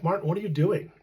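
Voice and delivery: a mild puzzled ask, rising at the end; gently baffled, asking what he's doing; puzzled question. Retold or imitated. Wife asks dying husband, puzzled.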